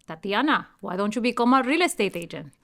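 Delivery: a light hint of dad's Colombian accent, quick; father suggests real estate, in a light Colombian accent; imitating dad's Colombian accent. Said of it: "I always imitate my dad's accent".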